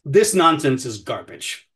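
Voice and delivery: slow, firm condemnation of the hype; firm anger. Real, not acted. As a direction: lay it down slowly and firmly. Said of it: "I love this family".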